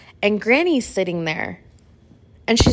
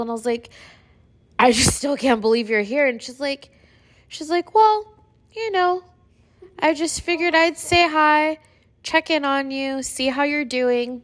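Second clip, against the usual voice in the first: high, strained voice close to tears; tearful, voice climbing with emotion; really teary; 6 semitones higher than usual. Real, not acted. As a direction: retell it while fighting back real tears. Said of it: "making me get teary-eyed".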